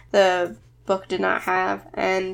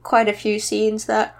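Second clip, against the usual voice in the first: words stretched by a yawn; 2 semitones higher than usual. Real, not acted. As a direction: talk through a slow yawn. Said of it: "I keep yawning on".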